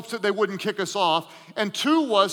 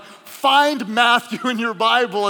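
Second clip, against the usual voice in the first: preacher voice; 2 semitones higher, 5 dB louder, slower than usual. Retold or imitated. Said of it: "preacher voice and all".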